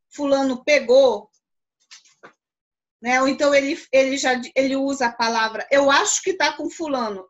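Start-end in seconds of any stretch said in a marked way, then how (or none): 0.1-1.3 louder, slow, definite statement; affirmative accusation. Shown as a demonstration. Pupil tells teacher who took it, firm accusing tone. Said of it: "ele usa uma entonação de voz afirmativa". 5.7-7.3 mildly assertive demo; affirmative intonation. Shown as a demonstration. Pupil names a suspect to teacher, lightly affirmative tone. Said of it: "ele usa uma entonação de voz afirmativa".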